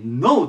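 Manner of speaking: ノー said as "no" with no K sound; ノー with the K left silent, just "no"; silent K know. Shown as a demonstration. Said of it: "これ発音気をつけましょう".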